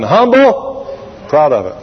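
playful self-advertising; mock humble boast. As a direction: show off humility like a badge. Mimics people's big humble button.

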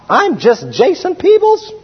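high, slow, plaintive "I'm just Jason Peebles"; retold self-realization. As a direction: voice himself discovering who he is. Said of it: "when Jason Peebles finally said".

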